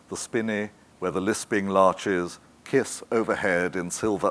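unhurried verse reading; poem reading. Acted. Daphne reads Cecil's poem, slow lilting verse. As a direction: let the couplets lilt gently.

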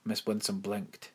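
plain reading voice

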